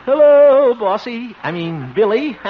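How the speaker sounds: high, loud, nervous sweet talk to a bull; nervous coaxing. Acted. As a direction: soothe the animal, voice jumping up.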